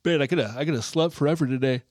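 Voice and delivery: talking through a yawn. Real, not acted. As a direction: yawn while saying it. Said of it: "I know you're yawning".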